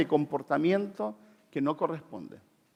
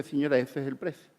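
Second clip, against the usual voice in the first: kindly; 3 semitones lower, 7 dB quieter than usual. Retold or imitated. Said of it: "la cajera amablemente le dice".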